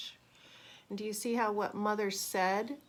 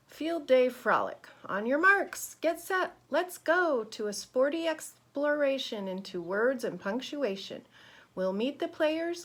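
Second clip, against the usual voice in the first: put-on lively, expressive reading to children; rhythmic, emphatic storybook voice; picture-book read-aloud; 4 semitones higher, 4 dB louder than usual. A narrator's reading. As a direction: read it brightly to a class of kids.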